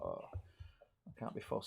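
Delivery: whispered, slow and lazy; mumbled can't be fussed. Retold or imitated. Host retelling skipping the pub, whispered and slow. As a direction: sigh it out, too idle to bother. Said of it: "I was just like".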